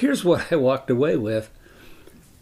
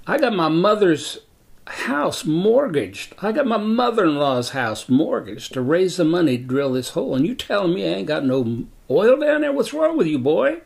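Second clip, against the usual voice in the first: angry cussing out; 6 semitones higher than usual. Retold or imitated. Landowner yelling at the surveyor about his dry hole, furious. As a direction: blow up at the surveyor over the mortgaged houses. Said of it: "He cussed me out".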